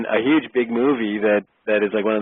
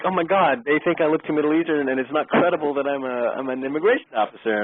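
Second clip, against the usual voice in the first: higher-pitched, mock-anxious inner monologue; panicking; 7 semitones higher than usual. Actor fears he isn't credible in role, retold panic. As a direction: replay your worried thoughts in a raised voice. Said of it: "I'm panicking now".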